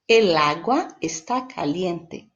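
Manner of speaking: slow, careful "el agua está caliente" with Spanish el; Spanish example. Shown as a demonstration. Teacher modelling Spanish for Portuguese learners, slow and careful. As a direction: model the Spanish phrase slowly for the class. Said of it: "Em espanhol".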